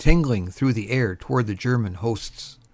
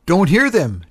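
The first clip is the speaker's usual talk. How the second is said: loud, raised-pitch reply; yelling back; 6 semitones higher, 6 dB louder than usual. A narrator's reading. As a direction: call back over the noise of battle. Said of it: "Tom yelled back".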